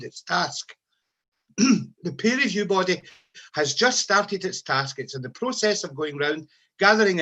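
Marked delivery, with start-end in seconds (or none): 2.0-5.0 slower, each word laid down deliberately; slow pointed repeat. Shown as a demonstration. Nurses' leader repeating the news to members, slow and pointed. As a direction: repeat it slowly so it sinks in. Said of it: "Well, news just in, folks".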